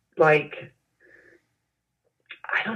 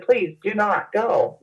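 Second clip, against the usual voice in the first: slow, understated plea; mildly pleading, each word stretched; retold begging; 3 semitones higher, slower than usual. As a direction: gently imitate begging, drawing it out. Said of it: "I literally begged".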